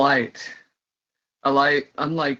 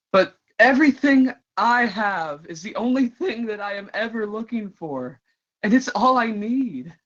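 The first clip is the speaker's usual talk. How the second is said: higher, ardent dramatic monologue; impassioned declaration; 4 semitones higher than usual. Acted. Performer declaring they will keep searching, impassioned. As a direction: lift it into a fervent, hopeful vow.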